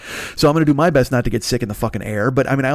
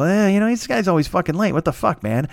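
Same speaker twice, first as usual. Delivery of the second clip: put-on mild cranky old-timer's grumble, starting higher; 6 semitones higher than usual. Host mimics himself griping about a friend's lateness, cranky. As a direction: grumble like someone getting old and crabby. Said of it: "you get cranky, and you go".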